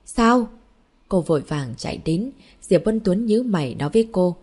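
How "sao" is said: shocked. A narrator's reading. Mother hears child fell in.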